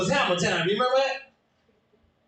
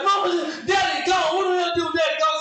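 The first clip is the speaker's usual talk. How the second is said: put-on very high, fast wailing child; crying kid; 10 semitones higher than usual. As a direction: wail it like a little kid.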